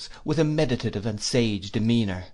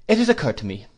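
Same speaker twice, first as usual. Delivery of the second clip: put-on higher, brisk and decided old aunt; stern aunt; 6 semitones higher, 5 dB louder, faster than usual. A narrator's reading. Aunt advising her nephew, brisk and decided. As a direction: lay down the law kindly but firmly.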